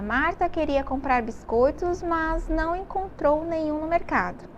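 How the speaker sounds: slow careful rereading. Shown as a demonstration. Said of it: "eu vou ler novamente, prestem atenção".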